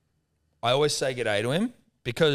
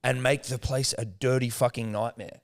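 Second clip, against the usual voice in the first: exasperated rant; 2 semitones higher, slower than usual. Retold or imitated. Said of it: "I go".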